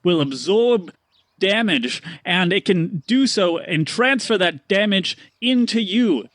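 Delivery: slow, grand showman pitch; merchant pitch. Acted. Stanley selling the shield to Paxton. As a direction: build up the magic shield. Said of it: "And he goes, he goes".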